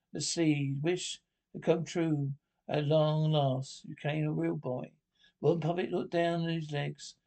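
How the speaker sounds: slow, measured bedtime-story narration; unhurried fairy-tale storytelling; storybook reading. Acted. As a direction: read the tale out slowly, savouring each phrase. Reads a puppet story aloud.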